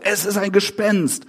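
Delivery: understated fright, read aloud; a touch of horror; mild horrified cry. A narrator's reading. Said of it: "schrien sie vor Entsetzen auf".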